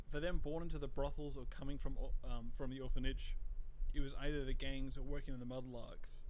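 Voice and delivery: steady storyteller read of a gang letter; reading a letter aloud. Acted. Streamer reading the Bottle Street letter to chat, plain storyteller read.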